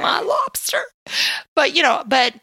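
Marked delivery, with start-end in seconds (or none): 0.0-0.8 whispered. Real, not acted. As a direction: breathe it out longingly. Dreamy echo of co-host.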